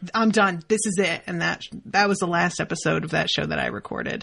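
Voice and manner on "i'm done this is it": put-on angry, disgusted voice. Retelling what they said at a show's finale: imitating own disgusted anger. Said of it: "the disgust is just dripping out of my mouth".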